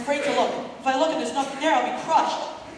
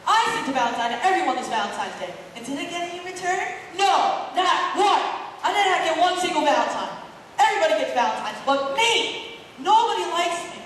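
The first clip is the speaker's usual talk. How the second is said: higher, fast, aggrieved outburst; self-pitying rant; 5 semitones higher than usual. Acted. Boy rants that nobody sent him a Valentine, aggrieved. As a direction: complain to the world at full speed.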